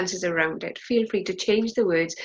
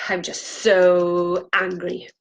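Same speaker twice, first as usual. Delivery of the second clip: spent anger; 4 dB louder, much slower than usual. Acted. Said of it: "feel free to put as much emotion".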